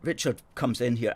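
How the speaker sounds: usual speaking voice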